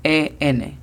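letters spaced out for learners; spelled slowly for a beginner class. Shown as a demonstration. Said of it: "La pronunciación fonética es".

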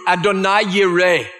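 Adonai Yireh said in Hebrew; Hebrew name. Shown as a demonstration. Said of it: "It would be in Hebrew".

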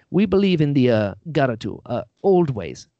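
imitating an actor's hard-to-place accent; Sereth's accent. Host recalls his actor's improvised take, in Sereth's made-up accent. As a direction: retell the take in a lightly voiced, unplaceable accent. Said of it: "he did a take when he's like".

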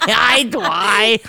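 laugh-snort while repeating it. Real, not acted. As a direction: snort of laughter through the words. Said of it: "Did you just snort?".

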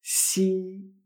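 "Xi" like a smiling "shee"; Chinese X. Shown as a demonstration. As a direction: hiss into "Xi" and hold the vowel. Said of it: "parecido también a la X".

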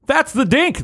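high, leering creep; creepy man voice. Acted. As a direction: announce it with creepy glee. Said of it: "the creepy man said".

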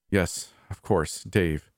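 slow, tired sighing reply; weary sigh. Acted. Brother sighs at Jeffy's talk of Dave, weary and slow. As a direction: sigh it out, resigned. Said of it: "he sighed".

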